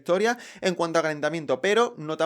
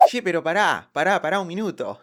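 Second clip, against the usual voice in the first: put-on Argentine accent. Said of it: "por imitar el acento argentino".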